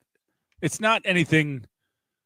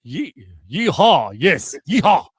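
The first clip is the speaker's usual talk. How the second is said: loud yeehaw in a German accent; hesitant start, then louder German-accented whoop; 6 dB louder, slower than usual. Shown as a demonstration. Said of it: "But in a German accent".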